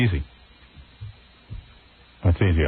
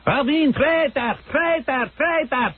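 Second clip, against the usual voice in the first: high, laughing mock chant; imitating protesters; 8 semitones higher, slower than usual.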